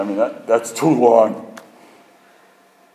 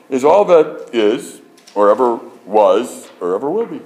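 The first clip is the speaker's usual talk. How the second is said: mock grandeur; 3 semitones higher, 5 dB louder than usual. Grandly quoting Sagan's creed.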